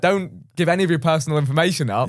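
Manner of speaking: lightly voiced lecturing adult; a hint of a warning parent; mock safety warning. Adults warning kids about the internet, mild mock lecture. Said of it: "So it was like".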